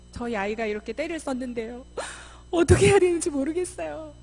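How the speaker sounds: distraught mother's plea, building from even to high and loud; imitated tearful mother. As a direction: mimic a mom breaking into a helpless wail. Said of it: "막 울어요".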